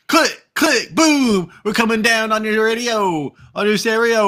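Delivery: radio DJ voice. Acted. Mock radio jingle.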